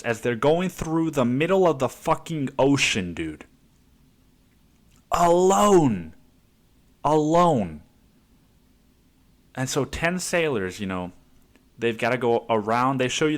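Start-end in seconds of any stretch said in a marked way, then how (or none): 5.1-7.8 mock solemn documentary echo, higher and louder; dramatic echo. Mock solemn echo quoting the documentary. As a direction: intone it like a film trailer.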